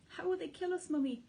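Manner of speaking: put-on high, scared small-child voice; a little cub asking in fear; frightened child. A narrator's reading. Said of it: "huge with fright".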